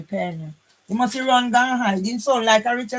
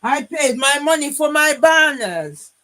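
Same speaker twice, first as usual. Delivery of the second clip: raised voice, words hammered home; indignant louder restatement; louder emphatic repeat; 4 semitones higher, 6 dB louder than usual. Real, not acted. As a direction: say it again louder, insisting.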